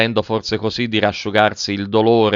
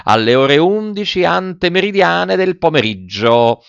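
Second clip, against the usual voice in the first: pompous ringmaster; 3 semitones higher than usual. Acted. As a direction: proclaim it to the crowd like a showy circus director. Director addresses circus audience. (il direttore del circo annuncia solenne al pubblico)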